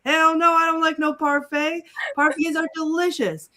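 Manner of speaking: high, animated protest; lightly voiced excitable sidekick; Donkey. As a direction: quote it with comic indignation. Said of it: "And Donkey says".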